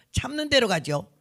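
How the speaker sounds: mock brusque nurse; gruff. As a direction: answer bluntly, as a retold quote. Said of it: "참 경상도 무뚝뚝하고 멋대가리는 없어요".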